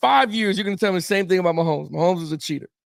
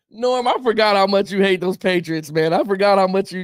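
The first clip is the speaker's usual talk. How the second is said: normal talking voice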